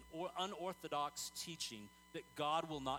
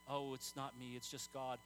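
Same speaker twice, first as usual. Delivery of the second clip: mock humble; 5 semitones lower than usual. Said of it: "Don't you ever talk like that again".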